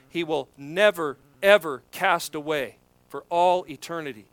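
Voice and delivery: "never" and "ever" set apart and stressed; emphatic promise. Retold or imitated. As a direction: land firmly on "never", "ever" and "all eternity". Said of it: "That's how emphatic Paul is saying this".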